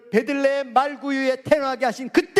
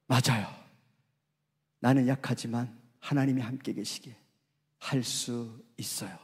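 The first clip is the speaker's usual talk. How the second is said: soft whisper; 9 dB quieter than usual. Real, not acted. Whispered confession of faith.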